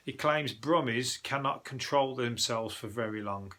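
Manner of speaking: slowed-down reading aloud; news read. Acted. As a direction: read the report out deliberately, word by word. Reads a news article aloud.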